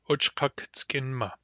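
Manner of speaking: whispered, slow, word said for learners; whispered demo word. Shown as a demonstration. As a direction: breathe the word out slowly, unvoiced.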